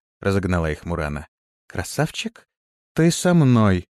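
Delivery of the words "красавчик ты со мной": firm order. A narrator's reading. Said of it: "непреклонным тоном приказала".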